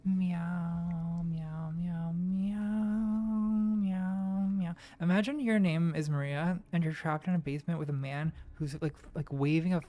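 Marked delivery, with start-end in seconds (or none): 0.0-4.7 mock meowing. Enemy meowing in the game.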